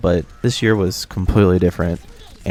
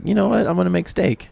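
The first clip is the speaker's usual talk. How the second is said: confident announcement; 11 semitones higher than usual. Retold or imitated. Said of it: "he was like".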